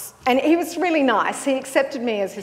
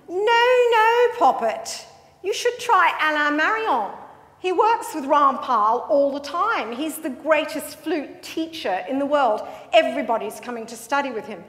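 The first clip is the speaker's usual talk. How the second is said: a lightly voiced camp English young man, the last question flying much higher; camp Englishman; 4 semitones higher than usual. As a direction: tease like a theatrical Londoner, mild at first and then shooting up. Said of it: "I stopped a young man".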